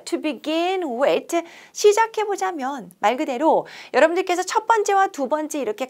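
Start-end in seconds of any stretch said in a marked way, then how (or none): 0.0-1.4 slow, stretched teaching read; model sentence read aloud. Shown as a demonstration. Teacher modeling a phrase for students, slow and clear. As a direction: read it out slowly for learners to copy. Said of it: "우리가 이 표현을 한번 써볼게요".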